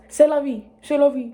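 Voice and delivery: loud, high mock French accent. Shown as a demonstration. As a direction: say "c'est la vie" like a hammed-up Frenchwoman. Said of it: "twerking my French accent".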